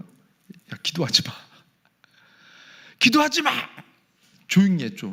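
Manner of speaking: mock annoyed, fed-up, dismissive scolding tone. Explaining a Bible passage, voicing God's reaction to the prayers: mock fed-up. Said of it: "이런 느낌이 다 싫은 거예요".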